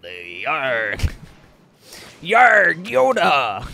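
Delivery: very slow, drawn-out villain voice; Emperor Palpatine. Acted. Player mocks a little green friend, slow villain impression. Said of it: "That doesn't sound like Emperor Palpatine at all".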